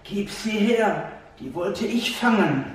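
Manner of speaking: lightly hissed like a wily snake; whispering adder. A narrator's reading. Adder whispering to the hedgehog to hand over the mouse, softly hissed. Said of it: "wispelte die Otter".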